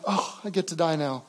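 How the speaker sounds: soft, defeated little whimper; mock whimper. Shown as a demonstration. Preacher mocking a weak resigned dying whimper. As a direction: say it like giving up. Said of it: "kind of a whimper".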